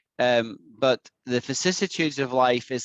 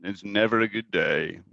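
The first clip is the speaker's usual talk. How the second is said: gloomy Eeyore; 5 semitones lower than usual. Retold or imitated. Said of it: "And Eeyore is down in the dumps".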